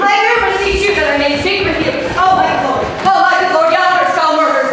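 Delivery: fast, loud urgent alarm. Acted. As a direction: rush in with terrible news. Emilia bursts in urgently.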